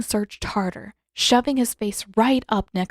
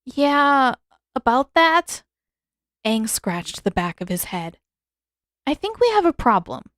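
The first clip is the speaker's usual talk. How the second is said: put-on higher, sheepish young hero voice; young boy voice; 4 semitones higher, 4 dB louder than usual. A narrator's reading. Aang admitting to Roku the cave is empty, sheepish young voice. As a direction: sound like a boy delivering awkward news.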